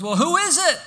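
loud, high-pitched questioning holler; calling back. Acted. Hanging man asks the voice above, calling out. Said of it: "then the man's response is".

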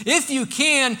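high and loud, disbelieving; incredulous. Retold or imitated. Preacher voicing Jesus repeating the father's doubt, incredulous. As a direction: throw the words back in disbelief. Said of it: "Jesus' response is".

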